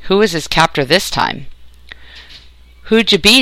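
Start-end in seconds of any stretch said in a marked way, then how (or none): 2.8-3.4 sharp demanding question. Acted. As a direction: demand an answer, higher pitched. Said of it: "demanded the voice".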